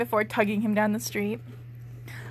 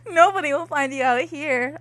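failed serious tone; 4 semitones higher, 3 dB louder than usual. Shown as a demonstration. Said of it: "faking a serious tone".

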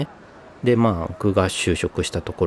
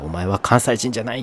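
mock accusation; 5 semitones higher than usual. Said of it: "って言って迫害されて".

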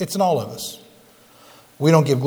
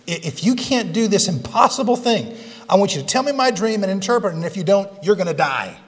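higher, fast demanding tyrant; mock the impossible demand; imitating a tyrant king; 4 semitones higher than usual. Pastor mimicking the king threatening his wise men, higher and fast. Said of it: "this is a political leader just saying".

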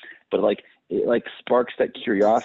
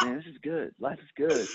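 content smoker; 9 semitones higher, 8 dB quieter than usual. Retold or imitated. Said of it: "he's just like".

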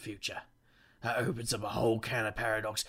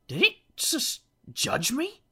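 much higher, slow, otherworldly; unearthly voice; 14 semitones higher, 6 dB louder, slower than usual. Acted. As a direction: echo the eerie voice back at him. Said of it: "There's that voice again".

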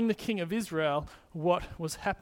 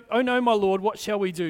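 a hint of panic, louder on oh no; mock panic; 2 semitones higher, 6 dB louder than usual. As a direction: voice the frightened servant, lightly. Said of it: "is his response".

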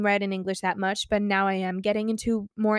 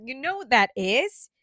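hushed, secretive whisper; teasing whisper; 3 semitones higher, 3 dB louder than usual. Acted. Fan building suspense for viewers before the concert date, whispering. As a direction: whisper it like a big reveal.

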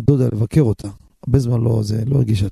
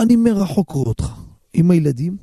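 high, tearful quoted plea; imitating a man in tears; retold crying man; 5 semitones higher, faster than usual. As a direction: voice the weeping stranger, pitched up. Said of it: "והוא בוכה".

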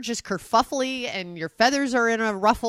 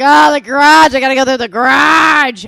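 very loud, hammed-up groan; mock wailing; 4 semitones higher, 14 dB louder than usual. Mimicking spouse dreading the garage, mock wail. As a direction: bellow it in mock despair. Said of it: "He's like".

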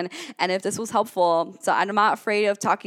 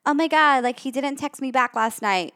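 mock-dramatic friend; 5 semitones higher than usual. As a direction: lightly play a friend upset over a text. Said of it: "if your best friend is like".

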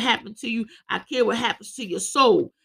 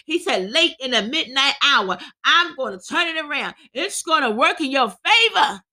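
impassioned preaching, driving through the list; 3 semitones higher than usual. Real, not acted. Preacher urges troubled listeners to confide in Jesus, impassioned preaching. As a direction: preach it with rising force.

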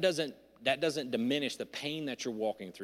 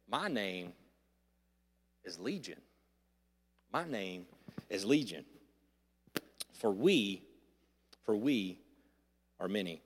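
demon voice; 5 semitones lower, 4 dB quieter than usual. Acted. Demon Legion answering Jesus.

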